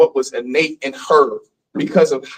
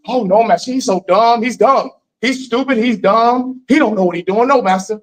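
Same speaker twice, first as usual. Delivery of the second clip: a hint of a mother pleading with the master, a touch higher; imitating pleading mother; 5 semitones higher than usual. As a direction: plead quickly to protect the child. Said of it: "What would your mother say?".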